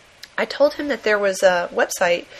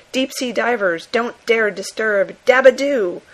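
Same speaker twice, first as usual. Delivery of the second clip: mild comic-book drama; 2 semitones higher, 4 dB louder than usual. Retold or imitated. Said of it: "completely breathless style".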